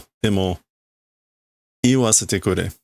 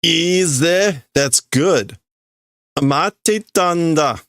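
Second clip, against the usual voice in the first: voicing Grimmjow; 8 semitones higher, slower than usual.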